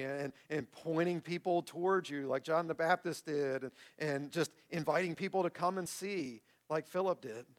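sincere, measured public prayer. Real, not acted. Pastor closing the sermon in prayer, sincere and measured. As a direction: lead the congregation gently in prayer.

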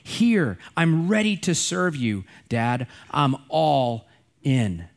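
slow, emphatic declaring of service; a son boldly answering his father; bold declaration. Pretend. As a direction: declare it boldly, ready to serve. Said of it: "of boldly declaring".

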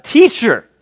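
butter him up; mock flattery. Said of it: "It's really funny when you think about it".

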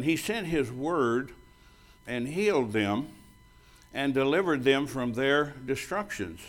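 slow, weighted reading of He sent his word; slow scripture reading. Shown as a demonstration. Pastor reading Psalm to the church, slow and deliberate. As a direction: lay each word down slowly. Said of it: "I wanna read this verse".

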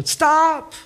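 imitating the old lady's shriek; screaming stop. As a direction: shriek it like a frightened old woman. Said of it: "She'd go".

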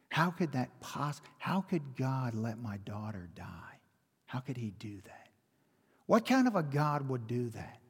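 understated seething, words stretched out in protest; retold seething anger. Grieving mother questioning God over her daughter's death, retold anger. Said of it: "seething with anger".

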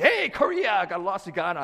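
high, loud, brash teasing call; loud stranger. Retold or imitated. Stranger at Starbucks teasing the pastor, brash and loud. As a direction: tease him like a rowdy sports fan. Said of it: "some guy's like".

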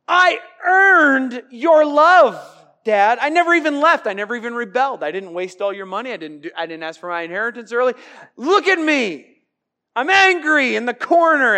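bitter whiny son; sulky older son. Retold or imitated. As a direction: pout and protest to Dad. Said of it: "He's judging".

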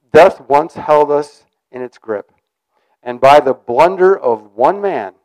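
slow, solemn reading of the verse; scripture reading. Acted. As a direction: read it as holy text, measured. Reads scripture aloud.

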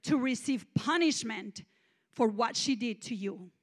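firm, weighty pronouncement; lightly voiced stern God. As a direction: pass judgment sternly, leaning hard on the first words. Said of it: "he said to me with a stern voice".

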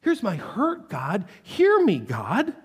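building cry of hurt; raw cry to God. Acted. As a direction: cry out the pain. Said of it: "He says".

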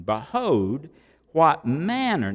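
"manner" leaned on, drawn out; slow weight on "manner"; stress on manner. Shown as a demonstration. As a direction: underline the word "manner". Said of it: "now underline manner".

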